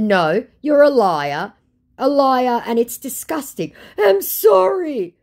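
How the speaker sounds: slow, high, loud rebuke; indignant scolding. Retold or imitated. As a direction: tell the liar off. Scolding the liar.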